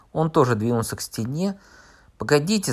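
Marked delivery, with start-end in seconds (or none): 2.2-2.7 raised, higher call. Acted. Narrator calling after the departing visitors, raised shout. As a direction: shout to stop them. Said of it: "закричал я".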